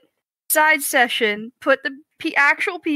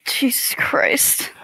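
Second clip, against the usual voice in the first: slow breathy whisper; 3 semitones higher, much slower than usual. Real, not acted. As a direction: whisper it in disbelief. Shocked at recording length.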